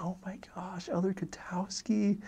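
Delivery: high, hushed stage whisper; slow, astonished whispered exclamation; whisper-yelling. Retold or imitated. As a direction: imitate an amazed companion yelling under his breath. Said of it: "He's, like, whispering, but, like, yelling".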